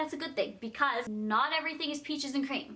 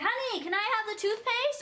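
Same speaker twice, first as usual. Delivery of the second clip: mock sweet partner request; 10 semitones higher than usual. Mock couple asking for toothpaste.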